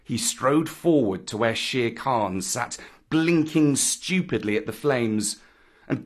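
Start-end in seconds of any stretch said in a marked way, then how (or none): none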